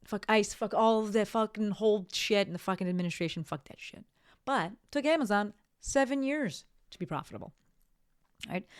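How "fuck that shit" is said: whispered aside. Real, not acted. Muttered end of angry rant.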